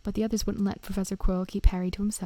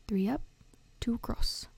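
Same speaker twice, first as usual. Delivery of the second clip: muttering to himself; 3 semitones higher than usual. A narrator's reading. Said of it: "he muttered".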